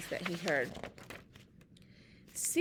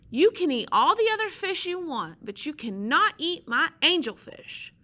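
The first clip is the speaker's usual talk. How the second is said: louder, higher scolding creature voice; Sea Slug yelling; 3 semitones higher, 5 dB louder than usual. Acted. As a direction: tell the pelican off firmly.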